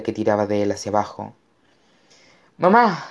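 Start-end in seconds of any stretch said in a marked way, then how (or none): 2.6-3.0 high cry for mum; desperate call. A narrator's reading. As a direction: call out to your mother in alarm. Boy calling mother in danger. (llamada a gritos, aguda)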